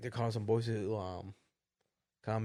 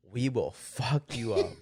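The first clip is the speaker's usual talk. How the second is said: retold threat; 2 semitones lower, much slower than usual. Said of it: "They literally said".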